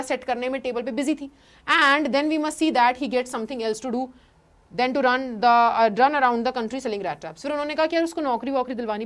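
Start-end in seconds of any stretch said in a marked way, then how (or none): 1.8-7.4 slow, careful read-aloud of the text; slow story reading. Acted. Teacher reading the English text to class, slow and careful. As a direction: read each word out slowly for students.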